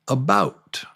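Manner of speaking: "about" whispered with a rising end. Shown as a demonstration. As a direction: breathe "about" without voice. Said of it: "Try to repeat".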